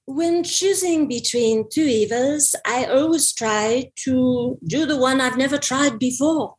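slow French accent that slips British; a French accent that drifts toward British. Shown as a demonstration. Asked for French, French-accented aphorism. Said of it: "let's hear a French accent".

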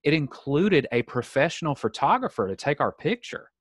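acted exasperated customer, stressing what was paid for; retold indignant insistence. Customer to tram staff about the photographer, indignant. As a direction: spell out the complaint, emphatically.

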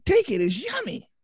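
put-on high, squeaky child voice; little kid voice. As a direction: play a small kid offering mud soup.

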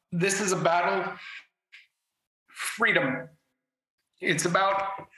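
halting, emotion catching in the throat; fighting back tears between words; choked up. Real, not acted. Guest on the news, struggling to hold back tears. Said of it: "Sorry for getting emotional".

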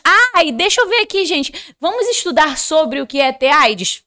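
high, loud sing-along enthusiasm, put on; mock teenage eagerness. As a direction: play a keen student, hammed-up. Mock eager teenager wanting to study AIDS.

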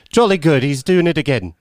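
cheerful prince playing along; mock Harry English. Harry reacting to Madea, mock posh. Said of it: "Harry just comes in".

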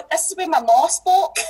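broad Scottish "ma" and "spoke", said the way her lecturer's mum talked; quoting her lecturer in a strong Scottish accent. Retold or imitated. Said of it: "She never said that. She said".

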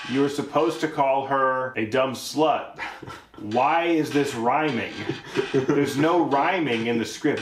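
slow, exasperated director's scolding; irritated director. Acted. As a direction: lay out the complaint slowly, word by word. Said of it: "The director was like".

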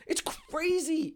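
soft laugh through the words, slow; laughing disbelief. Real, not acted. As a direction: laugh it out, amazed.

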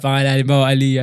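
normal talking voice

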